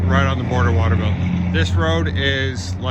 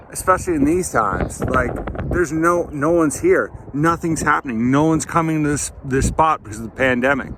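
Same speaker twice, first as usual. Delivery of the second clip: mildly exasperated rant, pitched up; 4 semitones higher than usual. Real, not acted. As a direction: rant a little about how silly it all is. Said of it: "Anyway, I'll stop ranting".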